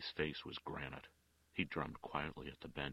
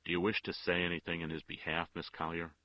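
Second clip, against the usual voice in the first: disagreeable; 8 dB louder than usual. A narrator's reading. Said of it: "asked disagreeably".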